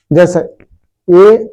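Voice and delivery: ए drawn out very slowly; slow vowel demo. Shown as a demonstration. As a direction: stretch the vowel ए long for the class. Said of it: "ओ करोगे तो मुख हिलता है".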